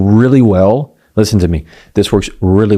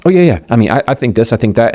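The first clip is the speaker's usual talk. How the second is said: quick, eager rapid-fire answer; rapid fire rush; faster than usual. Shown as a demonstration. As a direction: blurt it out without a breath. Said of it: "I'm going fast, fast, fast".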